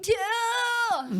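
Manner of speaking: squeaky high anime squeal; high cute anime girl. Pretend. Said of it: "Doesn't an anime voice?".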